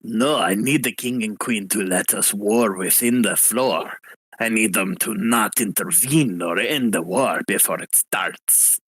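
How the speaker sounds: put-on low, hard French accent for a revolutionary; a hint of an angry French accent, pitched a bit low. Rebel leader demanding war from the party, in a light French accent. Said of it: "going for more of a French accent".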